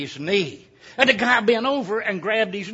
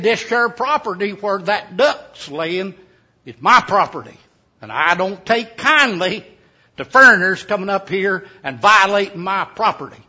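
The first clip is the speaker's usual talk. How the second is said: put-on louder, angry old mountain man; angry mountaineer; 7 dB louder than usual. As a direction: bark it out to guard his land. Mountaineer defends his land.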